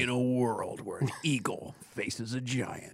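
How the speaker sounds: slow, hushed trailer announcer; movie trailer voice. Pretend. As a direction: announce it like an epic film trailer. Parodies a movie trailer opening.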